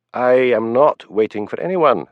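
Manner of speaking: slow, firm, mildly irritated denial; a touch of irritation, slowed right down. Acted. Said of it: "said Hamish, irritated".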